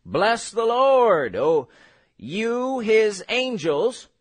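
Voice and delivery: slow, declaimed Bible verse; stately, deliberate pulpit reading; scripture reading. Acted. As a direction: read it out in spaced phrases, stretching key words. Reads scripture aloud.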